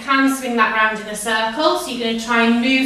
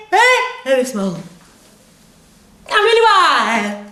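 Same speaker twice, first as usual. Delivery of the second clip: higher, louder, stretched warm-up calls; drama teacher; 7 semitones higher, 3 dB louder than usual. Acted. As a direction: coach the class with big energy. Leads face warm-up.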